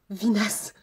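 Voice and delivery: loud, high, laughing cry of disgust; mock horror at a viewer's joke; playful outburst. Real, not acted. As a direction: throw it out with a laugh. Reacting to a viewer's comment.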